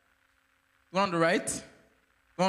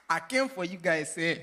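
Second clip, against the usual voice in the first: laughing through words. Real, not acted. Host teasing while laughing.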